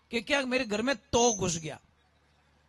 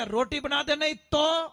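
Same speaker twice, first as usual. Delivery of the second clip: louder, a mock stern husband; loud bossy demand; 4 semitones higher than usual. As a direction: bark the order like a husband laying down the law. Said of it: "जोर से बोला". (ज़ोर से, रौब के साथ हुक्म)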